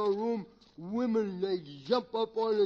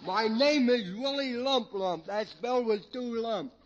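slurred, tipsy comedy character; comic drunk; 4 dB louder than usual. Acted. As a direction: play a rambling drunk for laughs. Plays drunken Willie Lump Lump.

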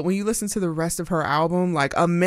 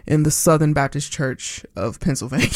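laughing shout; 3 semitones lower than usual. Real, not acted. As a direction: crack up mid-line. Laughing joke about church upbringing.

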